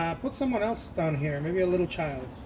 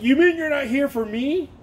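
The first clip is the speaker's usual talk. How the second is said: mock hurt plea; 8 semitones higher, 6 dB louder than usual.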